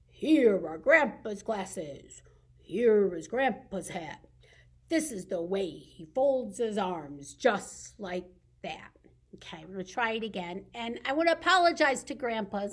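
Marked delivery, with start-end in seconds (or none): 0.1-8.9 grumpy grandpa. Shown as a demonstration. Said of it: "I usually make my grandpa grumpy".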